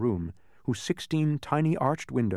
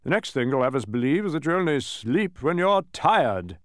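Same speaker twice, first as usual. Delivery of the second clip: higher, emphatic character voice; mathematician, incredulous; 4 semitones higher, 4 dB louder than usual. Acted. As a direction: scoff at the idea, pitched up.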